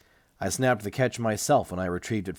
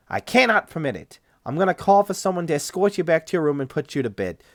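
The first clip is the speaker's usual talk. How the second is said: higher, louder doctor voice, lightly voiced; lightly voiced doctor objecting; stiff clinic doctor; 8 semitones higher, 7 dB louder than usual. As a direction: play the flustered doctor a notch up. Doctor figure in read story.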